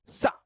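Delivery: "सा" in one sudden short burst; jerked "s". Shown as a demonstration. Teacher answers how it is said, jerked "सा". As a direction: give "सा" a quick jolt. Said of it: "झटके में बोलते हैं".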